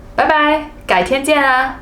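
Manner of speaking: 轻快地说再见; cheerful goodbye. Shown as a demonstration. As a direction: toss off a quick friendly bye. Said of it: "by just saying".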